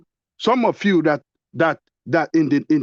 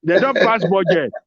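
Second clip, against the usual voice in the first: higher, goading Pidgin taunt; 3 semitones higher than usual. Real, not acted. Host teasing guest about waiting for election money, taunting. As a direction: tease them in higher-pitched Pidgin.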